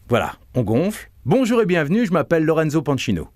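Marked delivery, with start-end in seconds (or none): 1.3-3.3 bright welcoming "Bonjour" lifted high; presenter greeting. Shown as a demonstration. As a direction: greet the audience with energy. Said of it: "je vais le faire d'abord".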